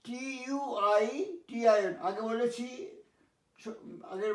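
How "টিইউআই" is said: টিইউআই spelt slowly letter by letter; spelling it out. Shown as a demonstration. Teacher spelling out টিইউআই slowly for students. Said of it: "দেখো".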